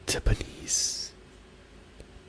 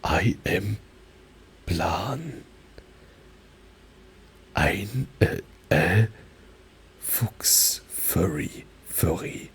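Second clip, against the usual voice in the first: German accent; much slower than usual. Shown as a demonstration. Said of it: "purposely more German pronunciation".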